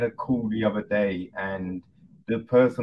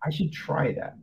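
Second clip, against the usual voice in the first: pleasant realization; 6 semitones higher than usual. Retold or imitated. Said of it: "and be like".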